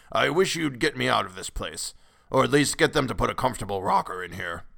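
cracked, aged grumbling; querulous old man. A narrator's reading. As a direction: complain fussily as an old man. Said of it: "went on the old man querulously".

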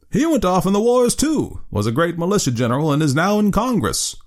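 put-on old man telling Rip his friend is dead, thin and piping. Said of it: "replied in a thin, piping voice".

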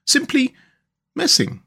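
very high, lingering Rat voice; dreamy. A narrator's reading. Rat lost in love of boats, dreamy. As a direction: let the words float apart. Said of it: "he went on dreamily".

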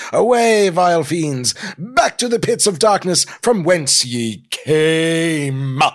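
loud, grand mock-heroic proclamation; dashing hero. Hero vanquishing Sir Norman's fiends, dashing and grand. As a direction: declaim like a swashbuckling champion. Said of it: "a dashing hero type".

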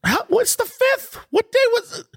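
high, incredulous double-take; suddenly thrown by the date; surprised. Real, not acted. Confused about the recording date.

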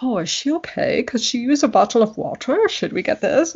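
put-on concerned bystander in a rough English accent; attempted English accent. Londoners fussing over a fainting visitor, English accent. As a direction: have a loose go at an English accent. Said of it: "I can't do accents".

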